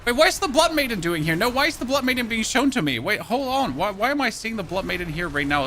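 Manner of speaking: puzzled at what the game shows; suddenly baffled at the screen; confused surprise. Real, not acted.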